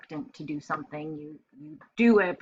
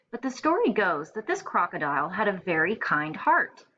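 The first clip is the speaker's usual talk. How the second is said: clear, expressive picture-book reading; storytelling read-aloud. A narrator's reading. Teacher reading a picture book to first graders, storytelling voice. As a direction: read it like story time for little kids.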